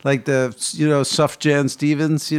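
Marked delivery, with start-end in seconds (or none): 1.0-2.3 the singer's first name read as spelt, SUFF-jan; hard English j in the name; the name to rhyme roughly with "rough fan"; simplified pronunciation of the singer's name. Shown as a demonstration. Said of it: "I just say it that way".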